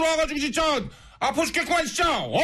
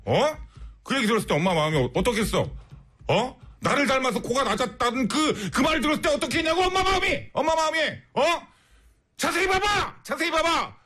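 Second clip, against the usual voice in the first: hammed-up rant at a daughter, shouting in bursts; mock scolding mother. Radio host scolds a listener's daughter, hammed-up angry rant. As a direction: play the exasperated mom yelling at her kid. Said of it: "그거 너무 오버하는 거 아니야".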